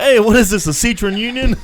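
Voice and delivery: teasing on seeing the family arrive; mock exclaim. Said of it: "you're like".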